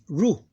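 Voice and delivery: ru as a short separate beat; open syllable. Shown as a demonstration. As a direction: end ru on an open u. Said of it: "Two open syllables".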